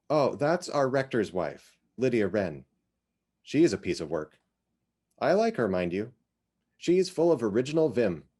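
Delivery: put-on chatty older woman sharing local gossip; lightly voiced Iz. Iz tells Cynthia about Lydia, lightly voiced chatty neighbour.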